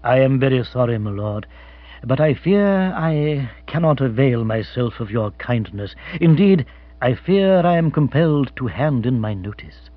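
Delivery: measured, regretful butler; mildly sorrowful, formal deference; apologetic. Acted. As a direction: give notice with polite reluctance. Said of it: "Jeeves sighed apologetically".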